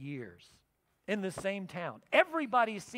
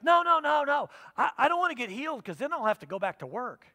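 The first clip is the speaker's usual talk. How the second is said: high, loud rushed refusal; hasty refusal; 5 semitones higher, 6 dB louder than usual. Retold or imitated. Patient refusing the pastor's prayer, loud and hurried. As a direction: wave off the prayer fast.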